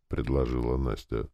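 ordinary delivery, nothing marked

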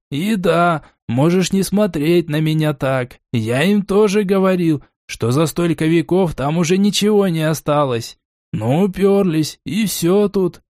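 a hint of a gloomy elder; character voice. Даунда speaking, narrator voices him.

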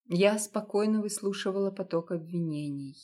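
plain reading voice

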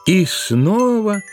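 ordinary delivery, nothing marked

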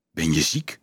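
low, gentle question; concerned. A narrator's reading. Leonardo checks on the shaken Dolf, concerned. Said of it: "vroeg Leonardo bezorgd".

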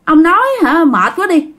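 mild, exasperated scolding, rising in pitch. Acted. Grandma telling grandpa to sleep indoors, mildly scolding. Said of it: "Bà ngoại mới la".

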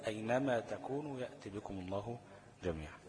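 أينما تكونوا read whole, the proper way to resume; correct restart from أينما. Shown as a demonstration. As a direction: restart the phrase from أينما, with no break before ما. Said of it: "لازم أجيبها من أول".

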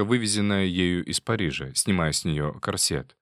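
plain reading voice

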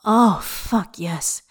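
breathless gasp, then trailing off; panting. Acted. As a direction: pant it out at the peak. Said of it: "Xie pants".

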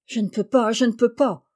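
a touch of a groan; lightly voiced moaning butcher. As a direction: whimper the refusal. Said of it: "gémit-il".

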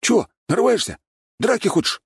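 high, cocky street-tough swagger; gopnik voice. A narrator's reading. Sweet boy faking a gopnik to newcomers, cocky swagger. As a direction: play a fake tough guy from the block. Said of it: "Голос Валентина тут же стал нормальным".

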